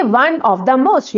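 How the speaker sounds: stretched out, word by word; very slow dictation. Shown as a demonstration. Teacher dictating the answer to students, very slow. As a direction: lay each word down slowly for them to copy. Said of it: "याद रखना है आपने".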